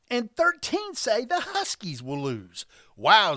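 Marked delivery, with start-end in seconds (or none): 2.9-3.3 mock wow. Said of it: "says Lucky".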